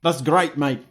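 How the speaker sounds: high, loud would-be Cockney; attempted Cockney. Co-host voices Bronson's thanks at the gate, attempted Cockney. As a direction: put on a rough go at Cockney. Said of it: "Bronson loves the Cockney gait".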